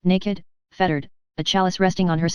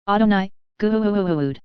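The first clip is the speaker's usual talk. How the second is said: voice of Adonai; 2 semitones higher than usual. A narrator's reading. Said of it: "the voice of Adonai calls".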